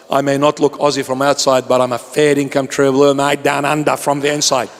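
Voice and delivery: lightly put-on broad Australian accent; hammed-up Aussie. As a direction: play the true-blue Aussie mate. Playing the true-blue Aussie.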